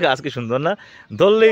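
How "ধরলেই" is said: surprised. Real, not acted. Touching the shy plant.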